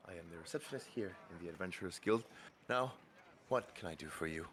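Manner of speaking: a soft, sweet guild receptionist welcoming a newcomer; gentle and gracious, like greeting a guest; polite receptionist voice. Acted. Receptionist warmly welcomes the new adventurer, soft and sweet.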